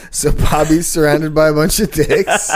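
giggly whispered words; laughing whisper. Real, not acted. Still giggling over the joke.

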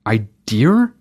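"Idea" with an r at the end, as a question. Shown as a demonstration. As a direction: quizzical "idear" for "Idea". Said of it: "what accent that fits into".

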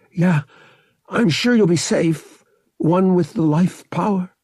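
forced sincerity. A narrator's reading. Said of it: "trying to sound sincere".

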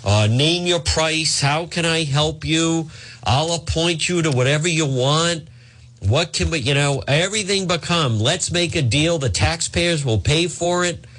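mock pleading for favors; mock groveling. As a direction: beg like a beaten man, lightly voiced. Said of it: "he's groveling at folks".

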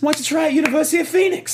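put-on fast, high Boston-accented ad pitch. Boston accent bit continues.

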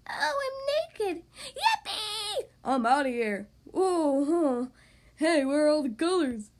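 squeaky, gleeful little crayon; excited crayon voice. Acted. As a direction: cheer like a freed toy. Crayons tumble out, cheering.

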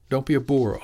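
with a grin. Acted. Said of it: "she said with a grin".

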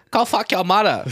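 hammed-up Asian accent insult; mock Asian accent. Correcting a friend's accent joke, loud mock Asian accent. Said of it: "Asian would be like".

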